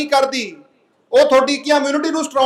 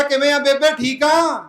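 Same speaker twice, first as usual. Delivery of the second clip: lilting hello to an imagined mother; mock-cheery drawn-out question; pretend greeting; 2 semitones higher, slower than usual. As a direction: play at checking on Mum, stretching the end. King pretends greeting his dead mother.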